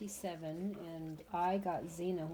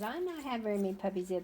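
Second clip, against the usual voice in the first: voicing the dog; 5 semitones higher, 5 dB louder, much faster than usual. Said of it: "this girl says".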